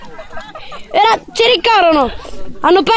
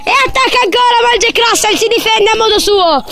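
mock live commentary. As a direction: call the dog fight like a big match. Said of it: "La telecronaca". (telecronaca sportiva concitata per gioco)

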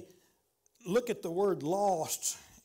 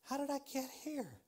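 lost believer's lament; 3 semitones higher than usual. Retold or imitated. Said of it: "I've had times in my life like that".

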